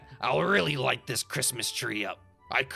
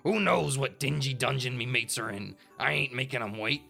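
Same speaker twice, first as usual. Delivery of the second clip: raised, gruff-tempered pirate threat; pirate shout; 3 semitones higher, 3 dB louder than usual. A narrator's reading. Pirate threatening the bugs to bring the big guy, shouted. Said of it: "Driftwood shouted for all to hear".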